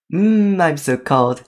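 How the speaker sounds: lightly acted chilly whine, drawn out; comic character feeling cold.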